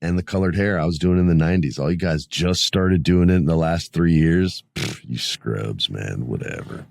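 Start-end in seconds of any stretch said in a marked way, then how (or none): 4.7-6.8 dismissive mutter. Pretend. Mock dismissing younger fans.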